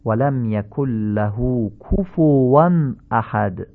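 slow recitation, "کفوا" as kufuwan; correct Arabic damma. Shown as a demonstration. Teacher recites the whole verse as model, correct Arabic damma. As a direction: keep every damma in "کفوا" a pure short u. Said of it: "این ضمه ها همه باید فصیح باشن".

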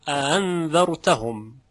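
انذرتهم slowly, second hamza softened toward a short a; slow recitation of انذرتهم without a hard second catch; eased second hamza. Shown as a demonstration. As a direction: glide into the second vowel of انذرتهم.

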